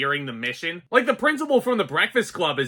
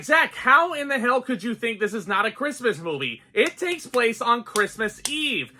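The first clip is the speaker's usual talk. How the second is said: higher-pitched, mildly mocking outrage; mock indignant commenter; 6 semitones higher than usual. Imitating an angry commenter who disagrees, with mock indignation. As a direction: parrot an outraged viewer, lightly hammed. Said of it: "be like".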